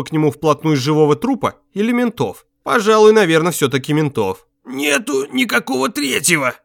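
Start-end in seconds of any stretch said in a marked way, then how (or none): 4.7-6.5 sullen denial in a higher put-on voice; lightly voiced sullen tramp. A narrator's reading. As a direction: grumble it stubbornly. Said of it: "угрюмо проговорил Витёк".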